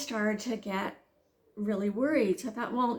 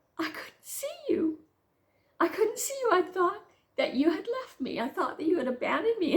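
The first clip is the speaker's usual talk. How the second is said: mock crying, high, tearful words; 9 semitones higher than usual. Telling him in the car why you burst into tears, retelling own tearful words. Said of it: "I burst into tears. I start crying".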